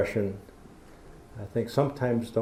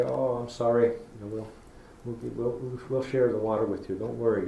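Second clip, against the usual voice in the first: gentle talk to plants. Retold or imitated. Teacher showing kids how to talk to plants, gentle and soothing. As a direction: comfort it like a small child. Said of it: "Be real gentle with them. ... Talk to them".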